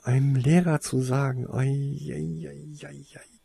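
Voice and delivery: high, soft lament trailing away; anxious moaning that fades out; worried whining. A narrator's reading. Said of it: "jammerte Cassandra besorgt".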